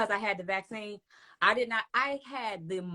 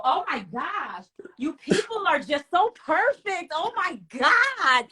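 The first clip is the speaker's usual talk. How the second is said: sarcastic; 4 semitones higher, 4 dB louder than usual. Pretend. Mocking critics of her flossing.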